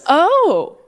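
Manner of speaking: slow, low, menacing unvoiced whisper. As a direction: threaten in a creepy hush. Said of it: "in a voice I'd never heard".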